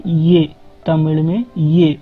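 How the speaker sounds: ये said as ye with a y glide, unhurried; teacher sounding ये; Tamil ye sound. Shown as a demonstration. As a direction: model ये clearly. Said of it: "लेकिन इसको बोला क्या जाता है".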